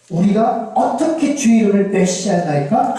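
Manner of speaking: mildly indignant comeback question; defiant retort. Acted. Israel defying God's accusation, mildly indignant retort. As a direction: throw the accusation back, protesting. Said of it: "또 대들어요".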